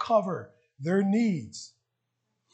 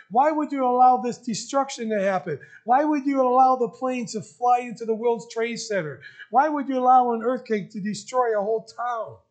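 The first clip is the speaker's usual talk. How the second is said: louder, rising pleas of a sufferer; pleading outcry; 2 semitones higher, 4 dB louder than usual. Retold or imitated. Pastor voicing people's questions to God, loud pleading. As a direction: throw each why up in protest. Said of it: "Someone say".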